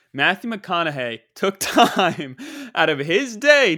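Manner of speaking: loud, drawn-out, laughing through it; giddy amazement. Real, not acted. Bragging to listeners that a star emailed him, giddy amazement. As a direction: stretch the words out big, high and loud.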